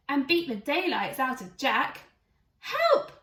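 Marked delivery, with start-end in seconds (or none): 2.6-3.1 loud, very high cry for help; loud high yelp; shout. Acted. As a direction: scream it out in panic. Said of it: "shouted Billy".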